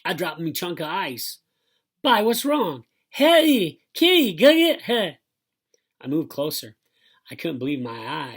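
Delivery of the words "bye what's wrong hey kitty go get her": high, loud, muffled-mouthed cries; high, urgent hollering; distressed yelling. A narrator's reading. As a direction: yell for help with lips stuck. Stuck boy's calls acted in story.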